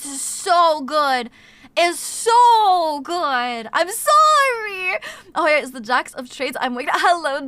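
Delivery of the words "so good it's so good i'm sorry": very slow, drawn-out moan of delight; mock swooning. Real, not acted. Streamer savoring the memory of a Kringle, slow mock swoon. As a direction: melt over how good it is.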